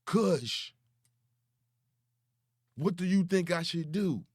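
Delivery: mock a grown man begging for advice through tears; lightly hammed-up tearful begging; mock crying plea. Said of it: "Do you know how many times he cried?".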